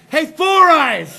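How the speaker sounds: slow mock shout; mocking robber yell. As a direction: imitate a heckling robber. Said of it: "then he's like".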